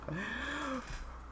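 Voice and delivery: vocal airplane whoosh; airplane noise. Pretend. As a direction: make a plane flying past. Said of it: "I was trying to make an airplane noise".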